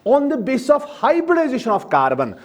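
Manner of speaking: the heading read word by word, slowly; slow dictation. Shown as a demonstration. Teacher dictates a heading for notes, slowly.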